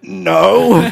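loud, high comic wail; mock tearful denial. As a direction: wail it as if badly hiding tears. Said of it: "Are you crying".

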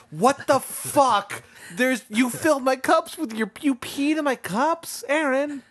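high-pitched, indignant telling-off, drawn out; incredulous high yelp of outrage; mock outrage. Acts out angry woman finding cups.

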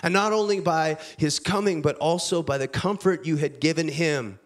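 measured, earnest reading of a Bible passage; scripture reading. Acted. Preacher reading Paul's letter to the church, earnest scripture reading. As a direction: read the letter to the congregation with weight. Pastor reads scripture aloud.

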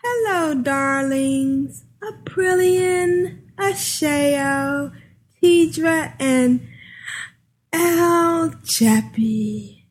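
campy drag queen drawl, high and stretched; Juno voice. Acted. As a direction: gush each name like a diva. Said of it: "She does a great Juno voice".

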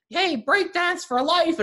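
high, slow, hammed-up hype voice; mock hype shout. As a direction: belt it out like a mock hype man. Retelling taunting a friend as toy.

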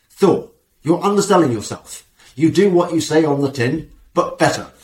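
playful Yorkshire client voice; Yorkshire accent. Retold or imitated. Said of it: "Like my Yorkshire accent there".

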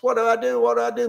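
high, frantic plea of a bitten man; panicked cry. Retold or imitated. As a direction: voice the terror of a dying man. Bitten people panic in camp.

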